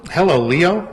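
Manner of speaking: light, high imitation of the good witch; lightly voiced high little good-witch voice. Friend's wife on the phone, high good-witch imitation. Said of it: "Bobby's wife has a very unique voice".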